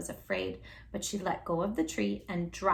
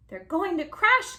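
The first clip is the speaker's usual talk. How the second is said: high, slow alarmed gasp; 9 semitones higher, 4 dB louder than usual. A narrator's reading. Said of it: "gasped Stella Luna".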